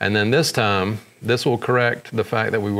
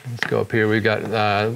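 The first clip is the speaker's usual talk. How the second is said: ordinary talk, nothing marked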